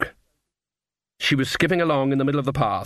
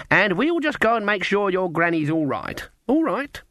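put-on coaxing a child; 7 semitones higher than usual. A narrator's reading.

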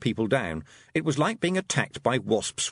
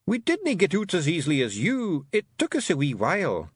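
raised gruff little Scots pixie, pleased with himself; Rob Anybody's Scots voice; 6 semitones higher than usual. A narrator's reading. Rob Anybody boasting to Tiffany after the fight, Scots pixie voice. Rob's voice.

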